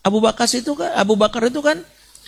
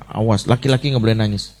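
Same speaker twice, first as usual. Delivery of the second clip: lightly voiced father, lower pitch; stern father; 6 semitones lower, faster than usual. Father telling his son off for crying, a hint of sternness. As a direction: imitate a father's low warning. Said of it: "bapak yang mengatakan".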